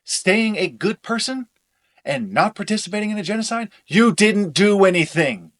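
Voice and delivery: loud, heated; angry shouting. Acted. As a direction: hammer each point in anger.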